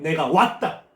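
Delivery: loud, emphatic announcement; Jesus. Acted. Jesus declaring to the people that he has come, emphatic. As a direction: announce your own arrival with force. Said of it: "예수님은 이야기합니다".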